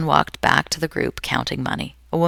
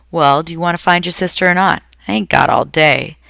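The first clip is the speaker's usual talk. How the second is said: snapped; 4 semitones higher, 6 dB louder than usual. A narrator's reading. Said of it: "snapped the stranger".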